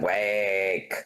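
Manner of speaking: sharp single-word order; commanding call. Retold or imitated. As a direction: snap it like an order. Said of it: "I said".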